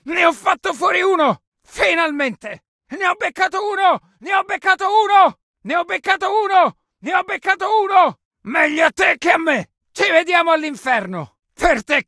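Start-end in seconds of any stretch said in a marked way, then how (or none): 2.9-8.2 shouted battle boast; exultant shout. Acted. Soldier announces a hit to squad, shouting. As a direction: call it out to the whole squad.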